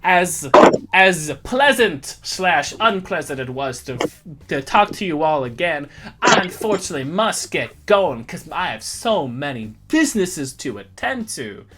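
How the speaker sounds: a hint of a Southern colonel accent; Southern gentleman accent. GM voicing Jedediah to the party in a Southern accent. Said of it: "Literally Foghorn Leghorn".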